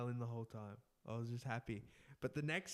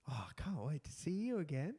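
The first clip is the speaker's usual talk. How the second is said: whispered goodbye. Retold or imitated. Woman whispering goodbye to him after a tight hug. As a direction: breathe it like a secret farewell.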